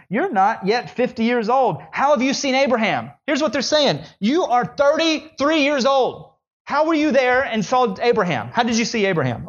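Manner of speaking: can't believe what he's hearing; incredulous. Acted. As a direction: Pharisees scoffing at Jesus. Pharisees incredulous, voiced high.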